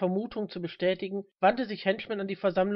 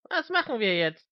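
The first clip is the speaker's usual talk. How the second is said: nervous; 4 semitones higher, 5 dB louder than usual. Acted. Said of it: "Mister Smith zitterte".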